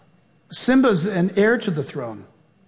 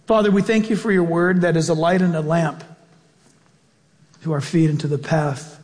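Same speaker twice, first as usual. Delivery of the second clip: closing prayer; 2 semitones higher than usual. Acted. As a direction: pray it out warmly and rising.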